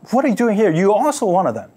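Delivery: loud, high demanding challenge; guards' challenge. Acted. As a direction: bark it at him like a patrol guard. Guards confront Peter.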